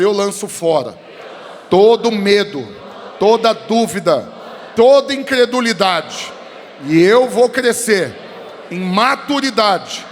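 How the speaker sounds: loud fervent proclamation; loud declaration. Real, not acted. Congregation repeats declaration after preacher. (proclamação fervorosa)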